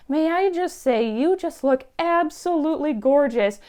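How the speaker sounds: retold gushing admiration; gushing compliment. Older lady complimenting a young goth stranger, imitated gushing.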